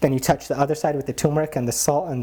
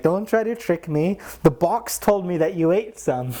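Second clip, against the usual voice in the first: higher, slow, knowing scold; mock scolding; 6 semitones higher, slower than usual. Maharaj scolds guru about sweets, slow knowing mock scold. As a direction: catch him out slowly.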